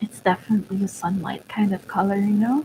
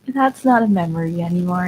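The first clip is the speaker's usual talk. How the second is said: tearful; 3 semitones lower than usual. Real, not acted. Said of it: "I'm getting a little emotional here".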